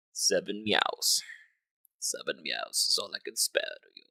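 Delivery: ration it out like a miser. Pretend. Repeats mock solemn line, slower.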